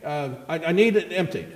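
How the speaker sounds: mother calls her daughter from the kitchen; mother yelling. Acted. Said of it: "So she yells".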